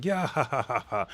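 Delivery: high mock cackle tailing off; imitated laughter. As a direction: put on a boy's gleeful laugh. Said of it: "he was laughing".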